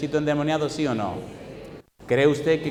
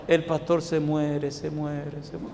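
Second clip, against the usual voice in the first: fading lament; 4 dB quieter, much slower than usual. Retold or imitated. Doctor mourning to wife.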